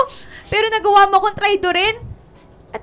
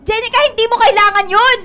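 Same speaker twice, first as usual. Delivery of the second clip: louder pleading shout; heated shout; 3 semitones higher, 5 dB louder than usual. Acted. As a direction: raise your voice to stop her. Heated argument between friends. (pasigaw na pakiusap)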